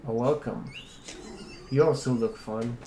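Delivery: low gravelly growl; a gravelly singer's voice. Acted. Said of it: "a very low, gravelly voice, think, like, a gravelly singer".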